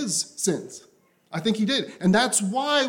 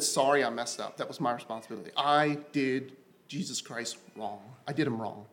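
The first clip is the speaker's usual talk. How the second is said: much softer and lower, contrite; humble confession; 9 semitones lower, 9 dB quieter than usual. Retold or imitated. Preacher voices a humble sinner confessing, soft and low. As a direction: hush it down, a repentant apology.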